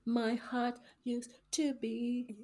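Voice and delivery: slow, choked-up wisecrack; teary joke. Real, not acted. Crying sister jokes about having no heart, teary. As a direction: joke through the tears. Joking while tearful.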